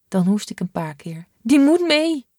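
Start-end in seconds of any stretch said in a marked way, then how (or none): 1.4-2.3 firm insistence. Acted. Boy insists on keeping backpack.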